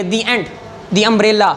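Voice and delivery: "the" said "dee" before a vowel; "the" rhyming with "see". Shown as a demonstration. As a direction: say "the" with a long ee vowel. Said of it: "تو ہم اس کو دی پڑھیں گے".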